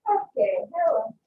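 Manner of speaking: muffled laptop mic sound; muffled, as if through a covered mic. Real, not acted. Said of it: "Sorry if it sounds a bit muffled".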